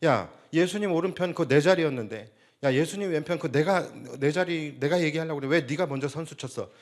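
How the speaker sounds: mildly heated mock complaint; imitated anger. Preacher imitates disciples quarrelling over Jesus's right-hand seat, mildly angry. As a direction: act out a squabble over a seat, lightly indignant. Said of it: "어떻게 화를 냈을까요?".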